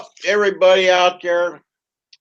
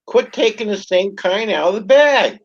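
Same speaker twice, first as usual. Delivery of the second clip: mom scolding; 5 semitones higher than usual. Retold or imitated. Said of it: "She says".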